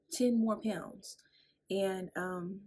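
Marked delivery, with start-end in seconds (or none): 0.1-1.2 slow, drawn-out stunned repeat; stunned disbelief. Retold or imitated. To the nurse, slow stunned disbelief. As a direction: let it sink in, slowly.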